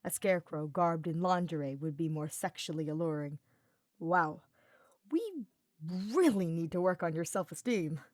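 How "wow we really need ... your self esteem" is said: wincing pity. Acted. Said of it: "Sylvain said with a wince and a sad frown".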